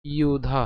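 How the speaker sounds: ইউধা said slowly as i-u-dha; ইউধা carefully separated for learners; broken-down pronunciation. Shown as a demonstration. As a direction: sound out ইউধা with a y-glide and aspirated dha. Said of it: "অর্থাৎ যদি ভেঙে লিখি".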